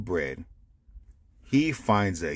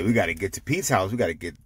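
hurried friends; much faster than usual. Acted. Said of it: "They say".

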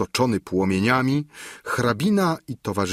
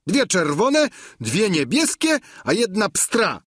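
much higher, near-shouting squire; Sancho's voice; 10 semitones higher than usual. A narrator's reading. Sancho describes the sky goats to the duchess, high and proud. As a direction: proudly rattle off the colours.

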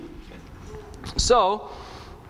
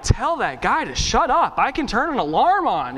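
higher-pitched mock exasperation; livid, retold; 5 semitones higher than usual. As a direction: play an irritated teenager woken too early. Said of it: "I would wake up livid".

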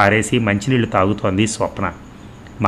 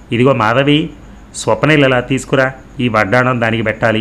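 lightly acted call, louder and higher; raised-voice summons in a story; 3 semitones higher, 3 dB louder than usual. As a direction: call over to someone with brisk authority. Grandmother calls out to Madhavi.

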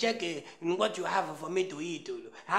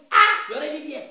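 mock eager reply; 6 semitones higher, 10 dB louder, faster than usual. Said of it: "if I call you".

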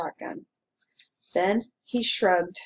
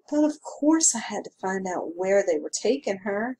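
patient. Acted. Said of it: "he explained patiently".

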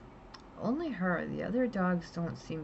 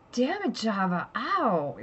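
louder, higher yelp of pain and anger; pained curse; 5 semitones higher, 6 dB louder, slower than usual. Retold or imitated. Owner bitten on the lip yelling at Java, pained curse. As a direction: curse the lizard that just bit you. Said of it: "And I'm like".

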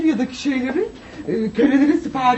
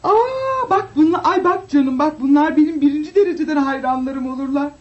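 grand diva delight; 2 semitones higher than usual. Acted. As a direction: show off her devoted fans. Diva showing off fans.

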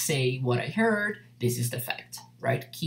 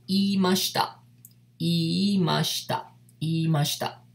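slow model word; 3 semitones higher than usual. Shown as a demonstration. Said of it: "E já na forma formal".

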